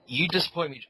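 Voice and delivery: half-successful celebrity impersonation; Alfred Hitchcock. Acted. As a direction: try out a disapproving famous-director voice. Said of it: "do an Alfred Hitchcock impersonation".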